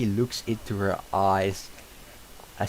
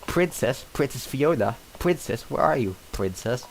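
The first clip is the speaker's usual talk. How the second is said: calling out; 5 semitones higher than usual. Acted. Donkey calls for the princess in the dark windmill, high calling voice. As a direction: sing out her name up into the dark.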